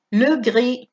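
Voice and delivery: gris with no S at the end; silent S in gris. Shown as a demonstration. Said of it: "la S no suena". (gris sin pronunciar la S)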